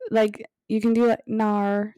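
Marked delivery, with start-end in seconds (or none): 1.3-1.9 Australian "no" as "Nar"; Australian accent. Shown as a demonstration. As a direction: stretch it into an Australian "naur". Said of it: "Australian's a bit hard".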